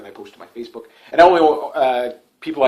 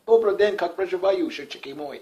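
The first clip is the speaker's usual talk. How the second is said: higher, lightly put-on Russian accent; mock Russian phrase; 4 semitones higher, 5 dB quieter than usual. Vlogger showing off the little Russian he knows, mock Russian accent. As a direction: toss off fake Russian in a jokey Russian accent. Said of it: "that's all the Russian I know".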